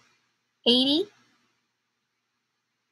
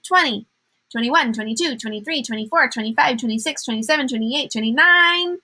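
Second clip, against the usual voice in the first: rushed counting; 2 semitones higher than usual. Shown as a demonstration. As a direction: race through the numbers to a big finish. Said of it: "That was a lot of counting. I kinda got out of breath".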